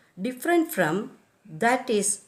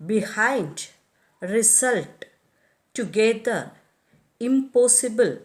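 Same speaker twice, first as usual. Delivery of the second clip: be-HIND, re-SULT, to-GE-ther, im-POS-sible; second-syllable stress. Shown as a demonstration. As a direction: stress behind, result, together, impossible on the second syllable. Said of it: "second syllable in such words as".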